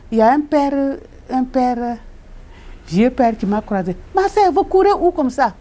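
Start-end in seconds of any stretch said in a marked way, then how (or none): 4.1-5.5 put-on old priest calling.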